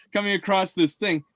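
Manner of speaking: chuckling through the words; laughing. Real, not acted. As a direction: laugh while you say it. Laughing while describing yetis.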